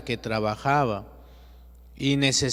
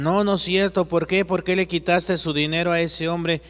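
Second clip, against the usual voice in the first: angry protest; 4 semitones higher than usual. Acted. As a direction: fight back against the answer. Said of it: "Y le dice Juan". (Juan protesta ante Jesús, indignado y en voz alta)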